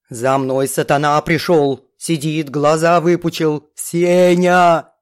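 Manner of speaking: ниже, громче, надрывно; кричать с перепугу; пьяная Галя в панике. A narrator's reading. (Галя зовёт Сеню, ниже и громче)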